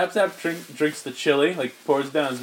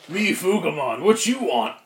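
put-on monster voice; original Fugamon voice. Shown as a demonstration. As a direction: play the monster, rising on the question. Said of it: "here's the original voice".

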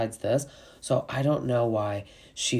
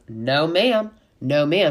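mock Southern firmness, a bit louder; firm no ma'am; 3 semitones higher, 4 dB louder, slower than usual. Sutton shutting down Anna Marie, firm and clipped. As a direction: plant your feet on "No, ma'am". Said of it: "She says it a couple times".

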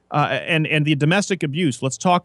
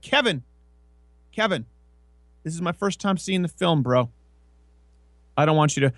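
lightly raised, patient scolding of a friend; a hint of pleading with an annoying friend; mock exasperated self; 3 semitones higher than usual. Telling Kevin to stop spoiling the film, lightly exasperated.

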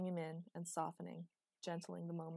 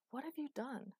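higher-pitched, restrained angry question; a touch of anger, pitched up; 7 semitones higher than usual. A narrator's reading. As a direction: demand it with contained anger. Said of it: "He sounded angry".

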